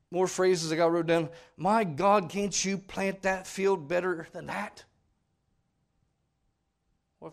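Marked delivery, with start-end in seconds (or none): 1.6-4.8 loud, slow mock scolding; hammed-up exasperated scolding. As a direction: scold him over the field. Preacher acting out scolding farmer.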